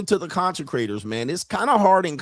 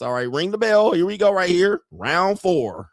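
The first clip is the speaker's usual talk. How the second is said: ring announcer; 4 semitones higher than usual. Pretend. Announcing a boxing round.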